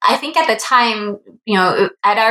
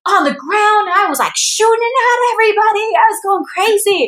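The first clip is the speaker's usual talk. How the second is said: much higher, tumbling fan thrill; gushing excitement; 9 semitones higher than usual. Retold or imitated. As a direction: retell it like a kid after the ride. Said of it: "He's like".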